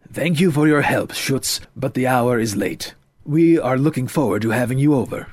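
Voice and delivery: lightly voiced courteous father; a hint of a polite, formal host. Father cuts in to thank the young man, formal.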